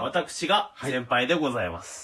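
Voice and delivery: slurring through a numbed mouth; numb mouth slur. Real, not acted. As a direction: speak like the anesthetic hasn't worn off. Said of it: "ちょっと滑舌が怪しいですね".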